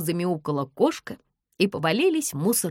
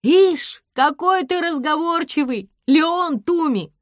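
much higher, loud mock; teasing shout; 11 semitones higher, 7 dB louder, slower than usual. A narrator's reading. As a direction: call down teasingly.

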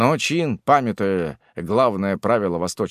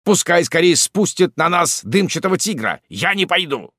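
frightened refusal; 8 semitones higher, 5 dB louder than usual. Acted. Frightened hillman refuses loudly.

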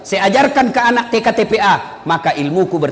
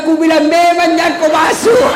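high, hammed-up exasperated yell; mock told-you-so shout; 8 semitones higher, 4 dB louder than usual. Villager scolding those who entered the lift, mock shout. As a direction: shout it as a comic I-warned-you.

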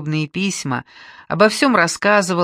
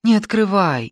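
frightened cry; 3 semitones higher, 4 dB louder than usual. Acted. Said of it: "испуганно крикнула Катька".

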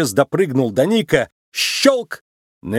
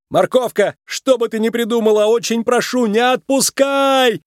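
desperate shout; 10 semitones higher than usual. A narrator's reading. Nick, hanging over the abyss, shouts a plea to Judy. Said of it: "прокричал Ник".

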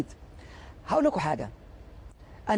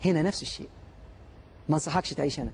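softer, low and smiling advice; with a small smile; 6 semitones lower, 7 dB quieter than usual. A narrator's reading. Socrates to a negative newcomer, softly smiling. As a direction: let a gentle smile carry the words. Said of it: "سقراط بابتسامه بسيطه قال له".

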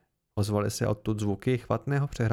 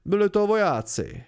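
alarmed blurt; 6 semitones higher, 5 dB louder than usual. Acted. Chronicler blurts out truth.

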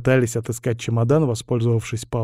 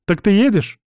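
suddenly higher and brisk, businesslike; completely different tone; 8 semitones higher, 5 dB louder than usual. A narrator's reading. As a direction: drop the flirting, snap to him. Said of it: "совсем другим тоном". (совсем другим тоном, выше и резче)

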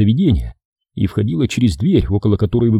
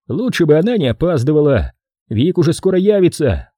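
put-on young guy voice; 5 semitones higher than usual. Jason warns about the boss.

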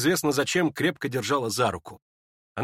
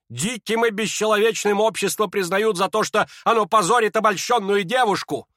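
higher, building indignant tirade; indignant old lady; 10 semitones higher, 5 dB louder than usual. Acted. Lizaveta rebukes the society crowd, rising indignation. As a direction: lecture them with rising outrage.

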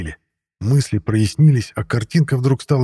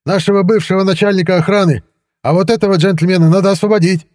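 much higher, agitated demand; hysterical; 9 semitones higher, 4 dB louder than usual. A narrator's reading. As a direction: insist hysterically, pitch held high. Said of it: "истерика в голосе". (истеричный, высокий голос)

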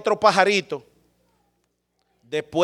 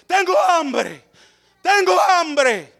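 high, very slow wail of tengo hambre; a mock lament, each word dragged; drawn-out hungry cry; 10 semitones higher, much slower than usual. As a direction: stretch it out like a starving plea.

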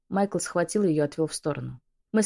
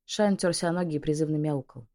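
plain reading voice

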